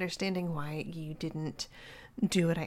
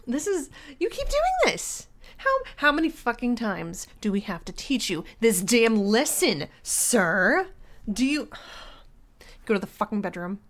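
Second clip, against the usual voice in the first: furious scolding; 5 dB louder than usual. Acted. Girlfriend berating her boyfriend for the wrong product, shouting. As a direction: rant at him like a furious parent.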